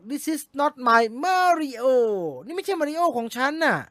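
high, very slow whiny fan voice; mock upset fan. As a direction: whine it like a let-down fan. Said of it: "แฟนๆเขาบอก". (เลียนเสียงแฟนที่ผิดหวังแบบเสียงสูงลากยาว)

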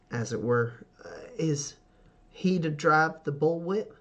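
hesitant, carefully spaced question; meek Red Wheel. Acted. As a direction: venture a question to an intimidating father. GM voices shrinking Red Wheel.

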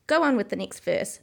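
impatient. Acted. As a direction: push it, clearly fed up. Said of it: "the Griffin repeated impatiently".

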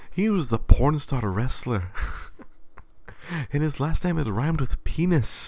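put-on high, slow British accent; British podcaster. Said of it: "like, they're so British".

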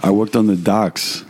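put-on Ontario dockworker accent; small-town Ontario accent played for laughs; mock Guelph accent. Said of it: "This is how everybody talks in Guelph".

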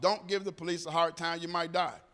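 taught warning. Retold or imitated. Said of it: "we're taught".

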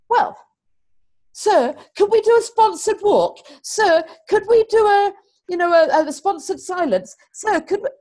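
high, breathless begging schoolkid voice; eager pupils. Retold or imitated. Pupils eagerly begging their teacher for a sponsored walk. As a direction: pester sir like keen children.

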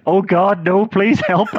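amused, hammed-up yelling; mock panicked shouting. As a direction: imitate a wrestler pleading loudly into a mic. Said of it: "he just starts shouting".

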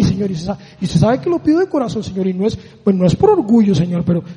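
hint of a pious whine; mock pleading prayer. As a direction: parody a roundabout prayer. Mocking a rambling prayer.

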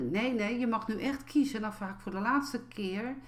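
firmer, insisting mother's tone; impatient mother pushing for a choice; stricter mother. Retold or imitated. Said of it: "de tonatie al anders werd".

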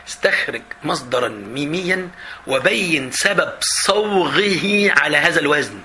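slow, formal classical Arabic reading; slow dictation of an exam question. Acted. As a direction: read it out like dictation, drawn out. Reads exam question aloud slowly.

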